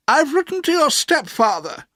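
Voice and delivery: put-on high, brisk old-lady voice; stern old aunt. A narrator's reading. Aunt orders the boy put to bed, high and brisk. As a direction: play the bossy aunt deciding.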